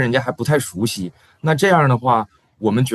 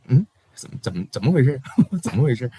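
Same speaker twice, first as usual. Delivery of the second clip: puzzled surprise; faster than usual. Retold or imitated. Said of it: "会有这种，这方面的顾虑".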